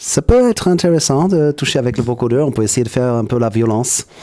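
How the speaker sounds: robotic vocoder voice. Shown as a demonstration. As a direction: talk through a keyboard vocoder. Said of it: "si je commence à parler en appuyant sur les touches".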